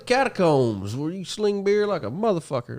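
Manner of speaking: high, loud hammed-up venue pitch; mock promoter. Joking pitch inviting folks to the catacombs, high loud mock-promoter voice. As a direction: holler it like a carnival barker.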